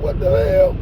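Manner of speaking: very high breathy squeal of alarm; startled cry. Retold or imitated. Kid getting whooped by grandma, high breathy squeal.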